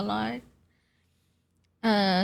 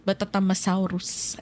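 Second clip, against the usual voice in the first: Filipino accent; 3 semitones lower than usual. Shown as a demonstration. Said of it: "I say it in a Filipino accent".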